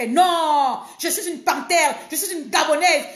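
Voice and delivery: proudly laughing through the boast. Real, not acted. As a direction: laugh while declaring yourself a panther.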